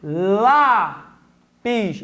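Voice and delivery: "Lápis" with a long "Lá", pause, then "pis"; "Lápis" slowly split, first syllable held; showing stressed syllable. Shown as a demonstration. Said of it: "qual é a sílaba tônica?".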